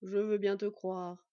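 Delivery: slow kindly understanding; compassionate. Acted. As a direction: grant it to her gently and slowly. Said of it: "Le ton de Lasborn y était compatissant".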